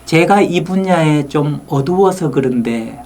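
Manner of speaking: 천천히 낮추며 말하기; 자신을 내려놓듯 부드럽게; 겸손한 말투. Shown as a demonstration. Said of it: "그 선생님이 이렇게 얘기했단 말이에요". (겸손하게 천천히)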